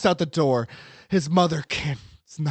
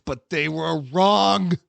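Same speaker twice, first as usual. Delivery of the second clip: dramatic emphasis; 4 semitones higher, 5 dB louder than usual. A narrator's reading. Dramatic turn in narration.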